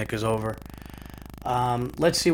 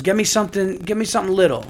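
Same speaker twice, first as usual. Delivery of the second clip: lightly voiced kid, higher pitch; mock a child's plea, pitched up; imitated begging son; 7 semitones higher, faster than usual.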